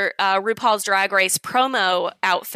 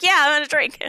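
mock-eager, higher-pitched outburst; overzealous; 5 semitones higher, faster than usual. Owning up to rushing the toast, overzealous. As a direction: jump in a bit too keenly. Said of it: "I got overzealous".

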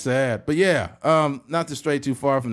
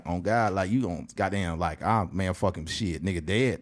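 low, softer Atlanta mumble; Atlanta accent; 9 semitones lower, 6 dB quieter than usual. Acted. Someone in Atlanta making threats, low Atlanta accent. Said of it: "threatened out somewhere in Atlanta".

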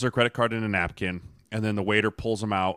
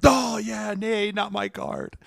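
mock casual; 11 semitones higher, much slower than usual. Fake casual during game.

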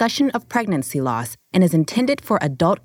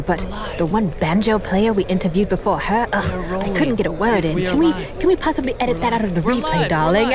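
diva aside. Acted.

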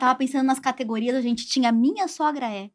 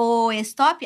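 ordinary talk, nothing marked

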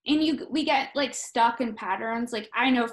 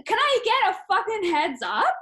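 higher-pitched mock outrage; re-enacted exasperation with laughter creeping in; indignant protest; 5 semitones higher than usual. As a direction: argue in rising, incredulous questions. Acted complaint to intruding parents.

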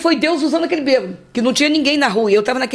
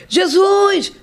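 retold scream; 8 semitones higher than usual. Retelling the truck accident, a high calling out. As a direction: cry out the name in panic.

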